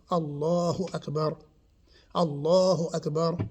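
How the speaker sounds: "Allahu Akbar" with held L and long A; measured "Allahu Akbar", long middle vowel; stretched Allah. Shown as a demonstration. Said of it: "we could do that".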